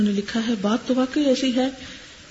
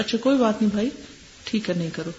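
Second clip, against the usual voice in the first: easy, accepting reply that drops off softer at the end; soft and calm; faster than usual. Shown as a demonstration. Teacher shows how to accept a refusal calmly. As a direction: gently let it go, with no pushing. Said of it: "سافٹلی، آرام سے".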